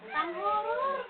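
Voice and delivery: high cooing. Real, not acted. Parent telling baby Red the shout was startling, high cooing. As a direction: coo it up high to a little one.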